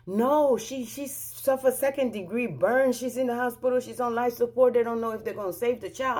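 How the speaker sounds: imitating a distraught caller, high and urgent; retold phone panic, short of a scream; frantic informant. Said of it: "She's screaming on the phone".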